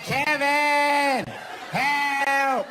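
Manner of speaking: high, strained cry of his name; wife calling for help. Retold or imitated. Wife struggling in the river, high cry for help. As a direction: call out for rescue from the water. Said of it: "She's like".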